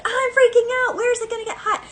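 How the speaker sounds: high, loud panicked squeal; mock panic. Pisces panicking in hot-or-cold game, high squeal. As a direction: freak out like a frantic game player. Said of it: "And Pisces is like".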